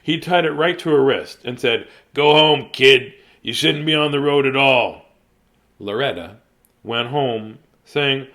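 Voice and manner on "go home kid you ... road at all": stern order. Acted. Officer scolds Loretta.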